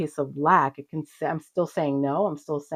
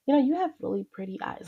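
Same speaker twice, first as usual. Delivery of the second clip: higher, tentative compliment to yourself; internal self-talk; 8 semitones higher, faster than usual. Retold or imitated. Looking in the mirror, talking to herself, gentle discovery. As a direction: voice a kind inner thought. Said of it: "Like, to myself, like, it was, like, this internal".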